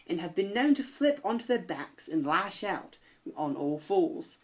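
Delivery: put-on a mild Australian accent on the read facts. Reading predator facts to the co-host in a mild Australian accent. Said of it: "let me read some more in an Australian accent".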